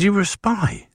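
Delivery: high, incredulous gasp of a question; stunned disbelief at a parent's secret; astonished question. Retold or imitated. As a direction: ask it as if you can't believe it. Learning mum worked at MI6.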